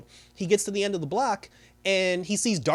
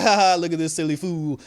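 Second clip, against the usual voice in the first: mocking laugh; 7 dB louder than usual. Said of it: "everybody just laughing like".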